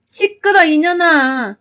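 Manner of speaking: sharp shouted scolding, pitch up; angry yell. Acted. Mother-in-law yelling at her son's wife, furious. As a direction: bark it at the daughter-in-law.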